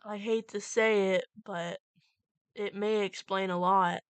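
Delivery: stern. Acted. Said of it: "Goldie's voice was stern".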